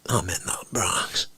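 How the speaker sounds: low, quiet caller's voice; understated, murmured phone message. Acted. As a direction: drop low and soft, like a terse phone call. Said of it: "The phone rings".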